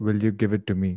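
ordinary talk, nothing marked

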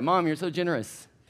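strained, forced sweet politeness with held-in anger. Retelling opening gifts while getting mad: imitating forced politeness while angry. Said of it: "I'm trying to hold it together".

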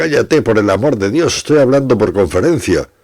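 yelled out far. Narrator covers the phone and yells at someone in the bathroom, shouting. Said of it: "Tapé el teléfono y grité".

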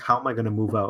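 ordinary talk, nothing marked

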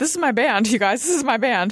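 play-acted high, bouncy, thrilled, boastful giddy excitement. Retelling bouncing around backstage before a show: imitating own excited bouncing. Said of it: "I sounded just like that".

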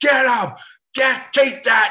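mock, very high, very slow cheering yell. Retelling what he yelled while watching his team beat another: retelling a yell at the game. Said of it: "And I'm yelling".

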